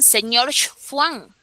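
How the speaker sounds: "señor Juan" slow, with the Juan sound run together as "señorf wan"; regional pronunciation. Shown as a demonstration. Teacher to students, showing a regional Peruvian pronunciation. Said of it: "sino dicen".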